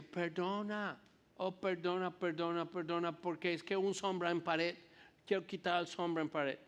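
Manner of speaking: imitating an American speaking broken Spanish; mock American accent in Spanish, apologetic; lightly voiced American lighting director. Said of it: "y con mucho acento".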